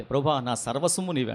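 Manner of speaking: soft, hushed devotion; hushed prayer line; quiet prayer. Retold or imitated. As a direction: murmur it to God. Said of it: "అంట".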